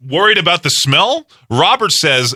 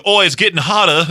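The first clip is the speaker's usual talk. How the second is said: put-on botched British accent, pitched up; bad British accent; 5 semitones higher than usual. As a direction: fake a British accent and fail. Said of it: "a British accent".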